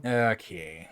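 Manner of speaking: glitchy robotic voice over a bad connection; robotic, warbled by a stream glitch. Real, not acted. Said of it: "for a split moment, you sound robotic".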